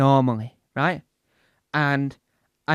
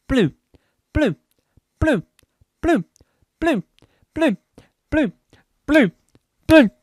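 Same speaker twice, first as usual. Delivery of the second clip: "blue" as short separate bursts, each falling; repeated till meaningless; 9 semitones higher, 10 dB louder than usual. Shown as a demonstration. Showing that it sounds like boo, "blue" in short falling bursts. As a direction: punch out "blue" alone, evenly spaced. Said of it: "It sounds like it's saying boo".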